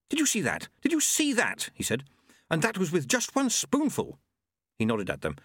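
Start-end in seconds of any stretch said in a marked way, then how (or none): 0.1-0.7 put-on higher-pitched excited old monk; thrilled monk asking for witnesses. Plump monk after the explosion, excited. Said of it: "looked out excitedly". 0.8-1.7 very high, thrilled exclamation on SEE; more excited. Acted. Plump monk insisting they saw it, very excited. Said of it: "looked out excitedly". 2.5-4.2 put-on high, thrilled old monk; excited. Plump monk showing off his explosion, excited. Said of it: "looked out excitedly".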